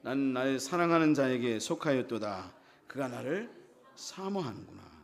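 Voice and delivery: low, solemn verse reading; scripture reading. Acted. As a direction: read the verse out formally, falling low at the end. Reads scripture aloud.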